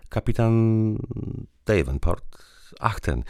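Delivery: high and bright, about to laugh; wife lightly amused at the captain's name. A narrator's reading. Woman saying the captain's name before laughing. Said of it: "i zaczęła się śmiać".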